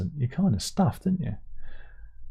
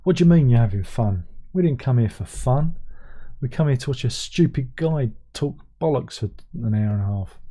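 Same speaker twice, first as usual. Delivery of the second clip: louder, huffy voice of a fed-up audience; mock indignant viewer; 3 dB louder than usual. Playing a viewer complaining to the streamer, mock indignant. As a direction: pretend to be the outraged viewer.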